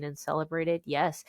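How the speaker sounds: normal talking voice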